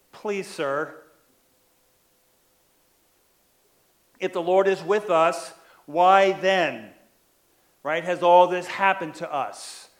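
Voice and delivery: understated sarcastic complaint to the angel. Retold or imitated. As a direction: let a light sneer creep into the question. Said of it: "he starts with this kind of sarcastic, um, tone in his voice".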